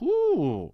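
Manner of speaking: high mock "whoo" sliding down; imitated "whoo". Host mimicking Powell with his little match, playful high whoo.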